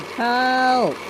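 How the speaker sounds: breathless whispered call for help; whispered cry. Acted. Scruff stuck alone, whispering a cry for help.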